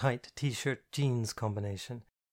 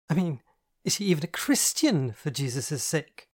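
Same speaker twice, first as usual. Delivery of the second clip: higher, louder, building to a mock-outraged peak; mock-scandalised camp friend; 4 semitones higher, 3 dB louder than usual. Andy grills Catherine about her date, higher, louder, mock-scandalised. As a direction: play the outraged chaperone with relish. Andy's flamboyant voice.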